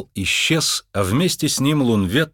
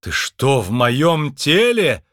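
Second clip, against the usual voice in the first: raised, appalled question; horrified exclamation; 4 semitones higher, 4 dB louder, slower than usual. Acted. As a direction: exclaim it higher, aghast at the discovery. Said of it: "в ужасе воскликнул он". (возглас ужаса)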